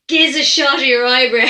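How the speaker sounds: lightly put-on Dublin accent; Dublin speak. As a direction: imitate an old fella's Dublin slang. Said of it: "in Dublin speak".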